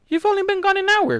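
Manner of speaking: squeaky high protesting voice. A narrator's reading. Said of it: "Kuno protested".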